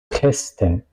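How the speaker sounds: Kästen with the first E kept short; short open E in Kästen; short vowel. Shown as a demonstration. Teacher repeats the example word, short vowel. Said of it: "suena corta".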